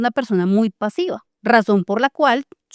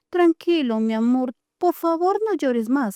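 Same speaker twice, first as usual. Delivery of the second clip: put-on higher, begging tone to a crying child; pleading parent; 4 semitones higher than usual. Shown as a demonstration. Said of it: "no es lo mismo decirle".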